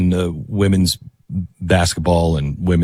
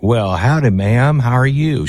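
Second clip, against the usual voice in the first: fake Texas accent. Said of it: "had no Texas accent".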